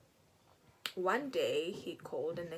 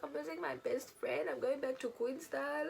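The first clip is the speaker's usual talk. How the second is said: mock despairing whine; 7 semitones higher than usual. Retelling her own teen despair.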